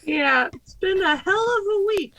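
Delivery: a hoarse voice from covid; croaky, worn-out tone; sick hoarse voice. Real, not acted. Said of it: "I like how you say".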